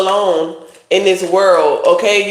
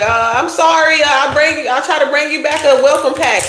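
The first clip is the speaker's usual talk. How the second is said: mock polite; 6 semitones higher than usual. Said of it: "I'd be like".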